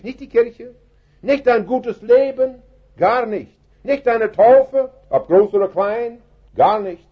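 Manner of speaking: high, ringing, slow denial of each false hope; impassioned preacher, pitched high and drawn out; preaching climax. Real, not acted. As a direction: raise the voice high and hammer each nicht.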